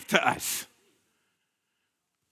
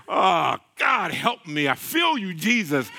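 overcome excitement; 2 semitones lower than usual. Real, not acted. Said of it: "I'm getting a little excited".

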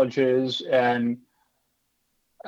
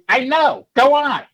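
dismissive woman; 10 semitones higher, 4 dB louder, slower than usual. Retold or imitated. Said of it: "She goes".

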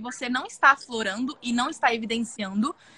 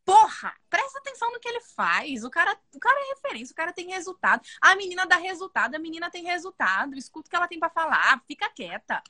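higher, heated scolding that builds in force; exasperated rant; 5 semitones higher than usual. Real, not acted. Scolding the critics who dismiss Rodrigo, heated and exasperated. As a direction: tell the critics off with real irritation.

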